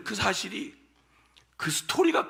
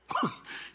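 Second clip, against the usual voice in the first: a quick, high, almost silent laugh; short high laugh; 6 dB quieter than usual. Real, not acted. Laughs mid testimony. (짧고 높은 웃음)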